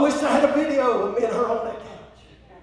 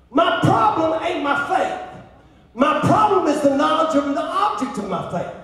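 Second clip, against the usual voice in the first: loud, emphatic preacher delivery; forceful preaching; 5 semitones higher, 4 dB louder than usual. Real, not acted. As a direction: drive each phrase home to the congregation.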